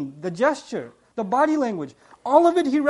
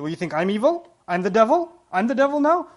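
imitated wounded disbelief, rising at the end; mock offended; 4 dB louder than usual. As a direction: act affronted, turning the blame back. Acted offended woman turning blame.

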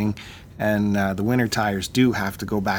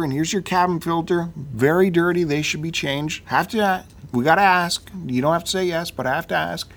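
lightly voiced service clerk, pitched higher; clerk's upsell pitch; 5 semitones higher than usual. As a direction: imitate an apologetic clerk running through the list. Clerk's sales pitch, voiced by teller.

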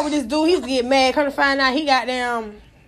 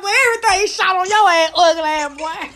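high, louder crying-laugh yell; mock yelling taunt; 5 semitones higher, 3 dB louder than usual. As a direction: yell it while cracking up.

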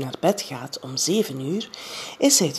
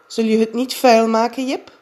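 put-on higher girl's voice, a bit louder and bossy; Janneke, bossy girl; 6 semitones higher, 6 dB louder than usual. A narrator's reading. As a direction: play the fussy little girl checking on Jip. Janneke warns Jip, child voice. (Janneke als bazig meisje, hoger en luider)

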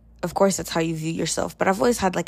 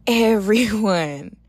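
drawn-out emphatic; 3 semitones higher, 4 dB louder, much slower than usual. Real, not acted. Emphatic after whispers.

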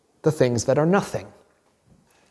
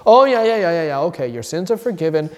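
offhand dismissal; 3 semitones higher, 4 dB louder, faster than usual. Retold or imitated. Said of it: "It's not just that he says".

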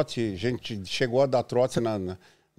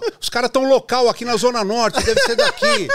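high, loud excited listener; mock caller breaking into laughter; 10 semitones higher, 6 dB louder than usual. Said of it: "os caras ligavam pra rádio e falavam".

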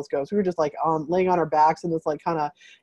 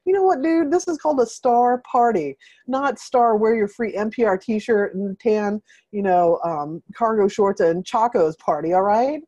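sassy retort; 3 semitones higher than usual. Retold or imitated. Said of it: "And I was like".

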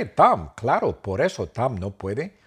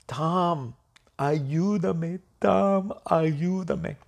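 pleading Dr Phil; 7 semitones higher, much slower than usual. Acted. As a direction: beg for help in a small high voice. Dr Phil begs Tom after crying.

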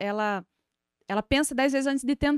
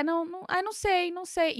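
put-on indecisive child; 5 semitones higher than usual. Mother imitating her child at breakfast, higher, undecided voice. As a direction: mimic a dithering kid, pitched up a little.

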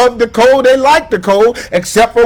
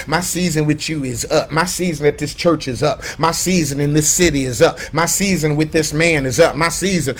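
mock pastor excuse; 3 semitones lower, 5 dB quieter than usual. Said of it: "heard a pastor actually say that".

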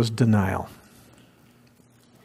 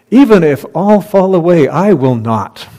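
emphatic Peter; 4 semitones higher, 4 dB louder than usual. Acted. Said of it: "Peter insisted emphatically".

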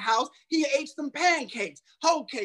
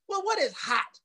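preaching cry; 8 semitones higher than usual. Acted. Preaching climax.

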